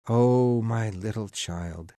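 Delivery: understated outburst of a grieving father; sudden grieving cry. A narrator's reading. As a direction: cry out on "Oh", then let it sink. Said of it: "he cried suddenly".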